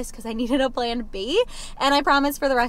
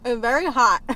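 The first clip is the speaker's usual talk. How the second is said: mouth full of hot food; 4 dB louder than usual. Real, not acted. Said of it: "My mouth is on fire".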